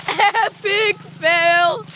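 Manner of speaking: drawn-out, slow teasing call; mocking epic fail. Real, not acted. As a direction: stretch it out to mock the fall. Mocking brother's crash.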